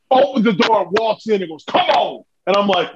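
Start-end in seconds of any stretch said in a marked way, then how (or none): 1.6-2.2 high, impatient call; acted summons. Veteran waving his nervous partner into the boss's office, high summons. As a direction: call him in from the doorway. Ron barging in, calling him.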